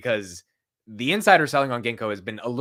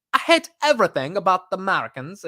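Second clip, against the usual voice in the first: hammed-up British accent, pitched higher; badly faked British accent, a bit raised; 6 semitones higher, 4 dB louder than usual. UK interviewee answering what they hate about Americans, bad British accent. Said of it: "that was such a bad accent".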